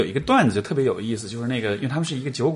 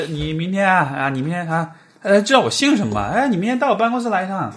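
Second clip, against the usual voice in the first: put-on scammer with a Teochew accent; light Teochew-accented scam caller; 7 semitones higher, 3 dB louder than usual. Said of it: "而且就是潮汕口音".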